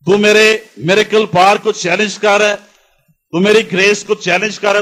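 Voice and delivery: mildly indignant, insistent challenge; holy anger. Acted. Preacher as Jesus confronting the man who doubts him, restrained holy anger. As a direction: press each accusation home, affronted. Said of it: "Jesus is having holy anger inside".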